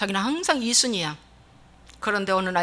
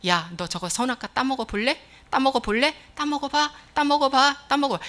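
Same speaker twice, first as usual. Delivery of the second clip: devil's gentle temptation; mock-gentle tempter's invitation; soft coaxing; 3 dB quieter than usual. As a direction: coax with little repeated nudges. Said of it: "부드럽게 말하래요".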